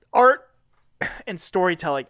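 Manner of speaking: halting, as if overcome by emotion; mock choked up. Podcaster overcome by the power of storytelling, mock choked up. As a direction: put on getting choked up mid-speech. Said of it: "I'm getting choked up".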